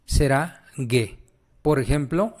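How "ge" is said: "ge" said gheh with hard g. Shown as a demonstration. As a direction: say "ge" slowly, g as in go. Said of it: "aquí G H E será".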